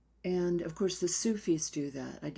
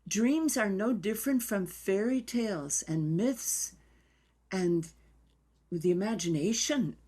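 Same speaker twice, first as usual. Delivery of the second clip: put-on just hint at her accent, raised voice; Trudy's accent; 3 semitones higher than usual. Imitating the teacher's accent while recalling their first interview, lightly done. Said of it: "I can't do her accent".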